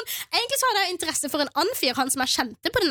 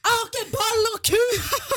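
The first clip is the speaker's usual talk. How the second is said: higher, slow, drawn-out yelled quip; mock shout; 6 semitones higher than usual. Standing her ground at the party, a slow yelled retort. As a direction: belt the line across the room. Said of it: "jeg roper over hele stua".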